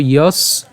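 "যস" as one syllable closed on s; pronunciation demo. Shown as a demonstration. Teacher showing learners how it is pronounced, "যস" closed on s. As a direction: stop "যস" on the s sound. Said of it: "এই উচ্চারণ কেমন হবে?".

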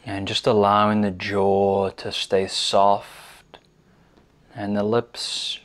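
measured guiding voice with long pauses; unhurried meditation instruction, leaving space after each phrase; guided meditation. Real, not acted. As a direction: lead them gently into stillness, pausing between phrases.

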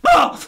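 high, loud burst of a yelp; shocked yelp. Retold or imitated. Laughing outburst in the cinema, high and loud. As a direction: let out a sudden high shriek. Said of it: "I don't know what sound I made".

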